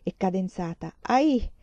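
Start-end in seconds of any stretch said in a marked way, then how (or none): 1.0-1.5 put-on high, loud, lilting older Spanish woman; a big Spanish matron, singsong and emphatic; loud singsong Spanish lady. A narrator's reading. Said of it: "Parlava a voce alta, stridula e cadenzata". (signora spagnola, voce alta e cantilenante)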